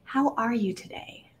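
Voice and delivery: soft, breathy whispered greeting; gentle question. Retold or imitated. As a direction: ask it softly, almost whispering. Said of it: "looks at me just so fully and says".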